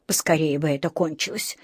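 low, soft, weary sigh. A narrator's reading. Mother waiting outside the surgery, sighing softly. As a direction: wish it over on a sigh. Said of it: "вздохнула миссис Браун".

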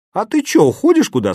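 high, puzzled asking; startled, half joking; surprised question. A narrator's reading.

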